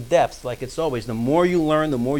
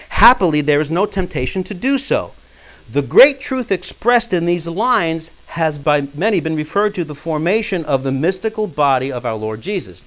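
measured, emphatic reading aloud; lightly declaimed quotation; formal quote reading; 2 semitones higher, 6 dB louder than usual. Acted. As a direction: read the text out firmly to the room.

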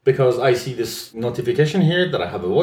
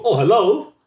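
mock-startled oh, hello, higher; surprised hello; 7 semitones higher, 3 dB louder than usual. Imitating someone startled by a sudden thing. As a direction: act jumped by a surprise. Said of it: "sound that you make when you are surprised".

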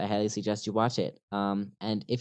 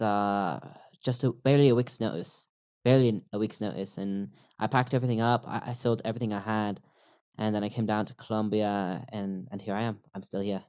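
demonstrating a British accent; put-on British English accent, conversational. Shown as a demonstration. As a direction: tell it casually in a British accent. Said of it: "Eh, my British accent".

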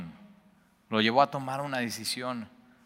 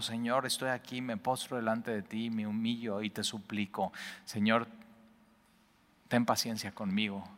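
humble plea; 6 dB quieter than usual. Acted. Servant's humble plea to God.

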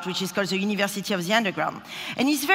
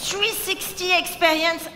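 mock amazement; 7 semitones higher, slower than usual. Mock amazement at 360 view.

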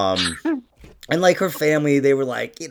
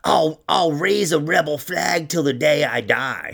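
mimicked Southern declaration; 3 semitones higher than usual. Imitating rednecky woman's declaration.

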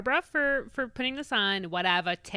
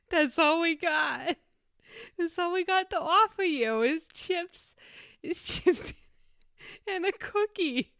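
flight attendant voice; 8 semitones higher than usual. Retold or imitated.

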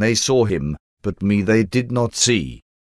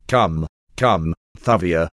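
lower, gentle calming tone; soothing; 5 semitones lower than usual. A narrator's reading. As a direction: soothe an overwrought girl, a touch lower. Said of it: "I said soothingly".

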